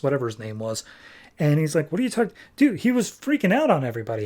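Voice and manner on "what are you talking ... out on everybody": indignant protest. Retold or imitated. Acted protest to staring classmates.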